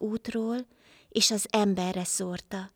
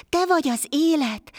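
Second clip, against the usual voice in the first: higher, louder glad exclamation; joyful cry; 7 semitones higher, 4 dB louder than usual. A narrator's reading. Blind man greets Life, crying out with joy. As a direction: cry out in happy disbelief. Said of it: "kiáltott fel örömmel a vak".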